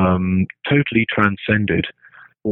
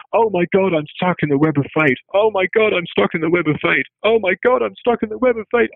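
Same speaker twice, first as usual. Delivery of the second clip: much higher, rising with each wail; mock tragic lament building up in pitch; melodramatic tragic hero; 9 semitones higher than usual. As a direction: ham up a doomed Greek hero, climbing higher each time. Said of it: "So it was like this".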